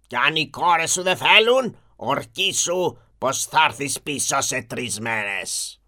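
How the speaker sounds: slow, low beast voice; a lightly voiced monster demanding an oath; stern monster. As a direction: beast demands the merchant swear to return.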